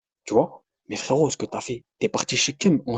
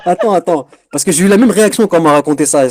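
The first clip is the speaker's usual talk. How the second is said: laughing; 4 semitones higher, 6 dB louder than usual. Real, not acted. Laughs recalling the scene.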